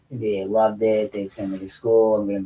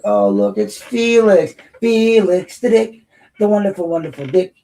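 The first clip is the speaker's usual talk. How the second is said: high mocking voice, much higher and louder; mocking sing-song; 10 semitones higher, 8 dB louder than usual. Taunting the heckler Felix in a high mocking voice. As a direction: taunt the rival in a high put-on voice.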